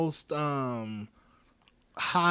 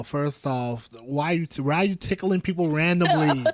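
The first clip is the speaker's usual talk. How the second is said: louder, rising mock scolding; mock indignation; 3 semitones higher, 6 dB louder than usual. Telling an imagined tickler to back off, mock indignant. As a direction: playfully tell off a stranger for tickling you.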